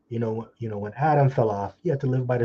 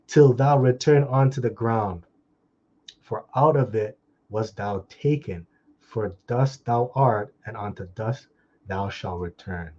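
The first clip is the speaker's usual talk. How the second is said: scripture reading. Acted. Preacher closing the Genesis verse, slow fading solemn voice. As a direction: let the verse sink to a hush.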